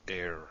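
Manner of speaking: "air" opening on a stopped breath; initial breath stop. Shown as a demonstration. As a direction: catch the breath, then release "air". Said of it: "There's this initial stoppage of breath".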